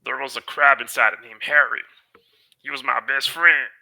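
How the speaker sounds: a hint of a sad character voice; lightly voiced Barbo. Barbo telling the wizard about Harry the crab, lightly voiced.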